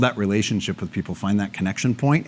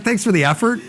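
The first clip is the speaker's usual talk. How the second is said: sarcastic; 10 semitones higher than usual. Retold or imitated. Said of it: "And it's like".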